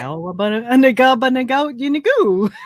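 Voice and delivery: nonsense syllables with nag inserted into each word; Pig Latin. Shown as a demonstration. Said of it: "can you speak some Pig Latin?".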